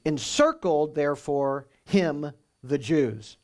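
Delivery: "Encircled" stressed, "him, the Jews" slow and apart; dramatic word order. Shown as a demonstration. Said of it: "it would read like this in Greek".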